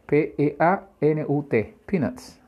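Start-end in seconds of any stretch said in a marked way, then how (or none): 1.9-2.4 PEANUTS pitched up, with the t sounded; final T pronounced. Shown as a demonstration. Teacher after spelling the word, PEANUTS with sounded t. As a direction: keep the t in PEANUTS audible. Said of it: "Acuérdate de pronunciar la T al final".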